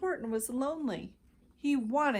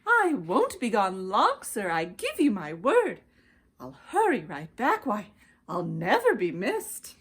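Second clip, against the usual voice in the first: pleading; 4 dB louder than usual. Acted. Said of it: "begged the bird".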